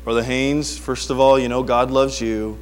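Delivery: lightly imitated calm counselor; low, unhurried, reassuring advice; Brother Willett. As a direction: talk him down gently, a touch put on. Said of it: "guys that talk like that".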